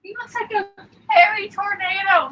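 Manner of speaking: high, loud squealing cat talk; cutesy voice. Real, not acted. Cooing about the cat.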